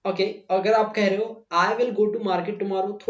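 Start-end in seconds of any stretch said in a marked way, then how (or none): 1.5-3.1 slow, "I will" said as two full words; full form demo. Shown as a demonstration. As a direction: say "I will" fully and separately, slowly. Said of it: "थोड़ा सा लंबा लग रहा है". (धीमे, "I will" पूरा बोलो)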